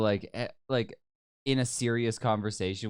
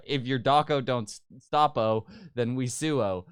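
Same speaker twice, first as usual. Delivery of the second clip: lawyer hamming up Aussie slang; fake Australian lawyer. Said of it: "he's trying to speak the language".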